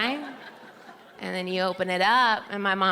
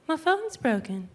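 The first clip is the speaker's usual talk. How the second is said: high, put-on mom voice; imitating her flustered mom; 7 semitones higher than usual. Comic imitating her mom at the phone store.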